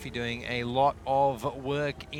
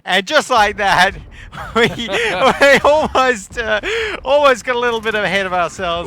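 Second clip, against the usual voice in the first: full-voiced, high-pitched play-by-play shout; excited shouting; 8 semitones higher, 14 dB louder than usual. Real, not acted. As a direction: call the decisive collapse at the top of your voice. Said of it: "we're shouting".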